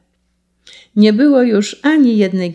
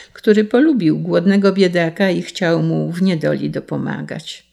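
usual speaking voice

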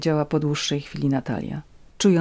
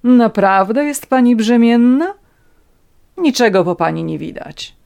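raised, loud, haughty questioning; scornful doubt; 6 semitones higher, 8 dB louder than usual. A narrator's reading. Countess questions Natalia about the pregnancy, scornful. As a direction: challenge her with open disdain.

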